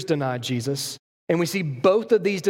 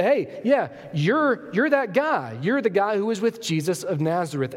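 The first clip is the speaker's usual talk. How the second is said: higher, excited accusation; accusing; 4 semitones higher than usual. Acted. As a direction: pounce on him with the "you're". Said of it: "and they say".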